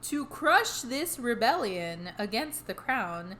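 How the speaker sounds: measured podcast read-aloud of history; scripted history narration. A narrator's reading. Telling the co-host the history behind the hauntings, measured narration. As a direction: read the history out steadily, phrase by phrase.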